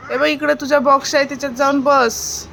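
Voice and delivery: calling to the bird. Acted. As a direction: call her over to her box. Mother addresses the bird directly.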